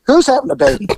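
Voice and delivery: high, alarmed question; startled question. Retold or imitated. Officer asking the frantic girl, high and startled. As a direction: caught off guard at the door. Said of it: "I said".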